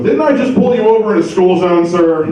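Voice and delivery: high-pitched mock cop questioning; imitated cop. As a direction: play the cop catching a driver out. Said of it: "the cop goes".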